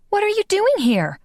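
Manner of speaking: high, startled demand; high-pitched shock at an intruder. Acted. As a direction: jolt awake and demand an answer. Woken to find Phil there.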